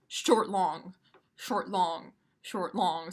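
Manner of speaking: short said light, long leaned on; iambic short long. Shown as a demonstration. Teacher spelling out the iamb to students, rhythmic. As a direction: chant short, long in even beats. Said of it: "a unit of poetry that goes".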